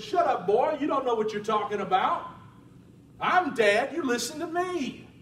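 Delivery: gruff dad scolding his son; harsh father. Acted. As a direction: shut the boy down hard. Father scolds Gideon in story.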